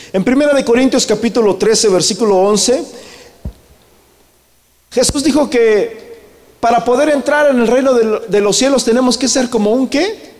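lifted, fervent preacher's call; rally the congregation with the verse; preaching. Acted.

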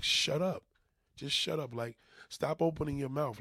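irritated outburst at the nephew; exasperated shut up. Retold or imitated. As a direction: tell him off in exasperation. Venting at nephew.

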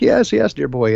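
hammed-up upper-class English accent, delighted; imitating a posh English gent's accent, high; Huxley's posh English accent. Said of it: "he got this inimitable accent".

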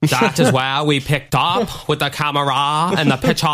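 put-on old-time announcer voice; hammed-up mid-Atlantic accent; transatlantic accent. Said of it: "have this fucking, what, transatlantic accent".

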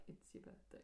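whispered song line; under my breath. Retold or imitated. Remembering hearing the name, a whispered lyric. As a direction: breathe it quietly to yourself. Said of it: "Like, under my breath".

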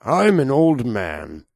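put-on very slow, weary old man; tired American old man. Shown as a demonstration. Doing an American old man, very slow and tired. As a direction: sound worn out and unexcited. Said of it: "that's kind of American".

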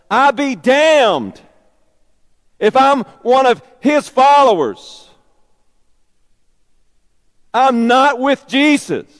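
loud, high, slow swearing oath; cursing denial. Acted. Peter cursing before the crowd, loud slow oath. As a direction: curse yourself to prove it. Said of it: "Peter begins to curse".

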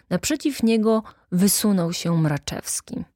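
plain reading voice

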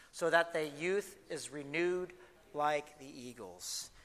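slow, measured King James psalm reading; scripture reading. Acted. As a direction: read it aloud reverently, savoring each line. Leads congregation reading Psalm 103.

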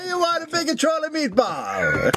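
hammy Italian host offering food; a hammed-up Italian accent; cartoon Italian accent. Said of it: "my idea of Italy is so fucking cartoony".

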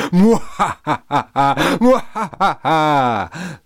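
slow, high, loud villain laugh, in a put-on voice; evil cackle. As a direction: throw back your head and cackle like a cartoon baddie. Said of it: "laughed Lemonface evilly".

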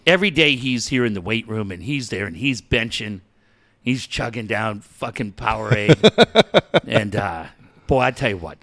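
a hint of a smug press-conference exec; mock team executive. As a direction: parody a team official reassuring fans.

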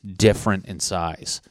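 loud, fired-up disbelief; excited. Real, not acted. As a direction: hammer the question out excitedly. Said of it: "that's how excited I am".

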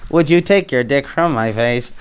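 flat synthetic robot delivery. Pretend. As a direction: speak like a voice computer. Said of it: "give him the robot voice".

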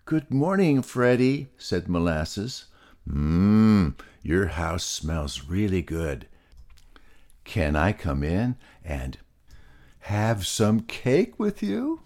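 high cheery pig with a sneaky hushed ask; lightly voiced eager pig; Molasses the pig. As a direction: charm your way to some cake. Molasses voice greeting Freddy.

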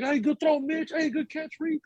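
high-pitched cheering call; yelling encouragement. Retold or imitated. Fan to players at practice, yelling encouragement. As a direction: shout praise like a proud dad at practice. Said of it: "yelling at the players".

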